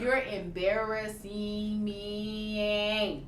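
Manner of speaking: slow, drawn-out complaint; embarrassed scolding. Retold or imitated. Wife silently scolding her laughing man at church, mortified. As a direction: stretch each word in mortified disbelief. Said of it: "looking at him like".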